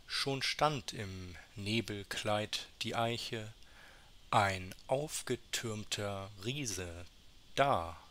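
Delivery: measured poetry reading with pauses between verses; understated, deliberate poem delivery; poem recitation. Acted. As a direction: recite it verse by verse, lightly dramatised.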